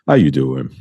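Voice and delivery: Wendy voice. Acted. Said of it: "in my Wendy voice".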